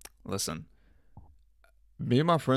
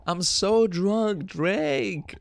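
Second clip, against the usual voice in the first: high, drawn-out mock drunk wail; high-pitched put-on party-drunk voice; drunk thot tweet; 9 semitones higher, 3 dB louder, much slower than usual. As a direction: whine it long and loud like a sloppy drunk texter. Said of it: "a dude acting like a, a, a thot".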